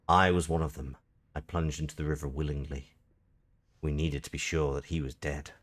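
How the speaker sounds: measured storybook narration, sinking at phrase ends; story narration. A narrator's reading. Reading the game's story of a river rescue, measured narration. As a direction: read it out as a grave tale.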